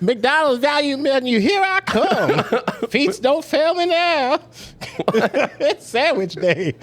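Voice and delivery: high, slow, laughing Nigerian voice; gleeful Nigerian guy, drawn out; Nigerian accent. Retold or imitated. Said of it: "The white guy that does the Nigerian voice".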